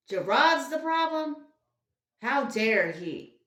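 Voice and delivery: high, loud mock disbelief. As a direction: throw it back in fake shock. Sarcastic mock outrage.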